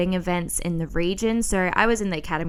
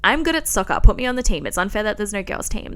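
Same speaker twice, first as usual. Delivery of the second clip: mock indignant demand; 2 semitones higher, faster than usual. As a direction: plead your case like a cheeky kid. Because I was like.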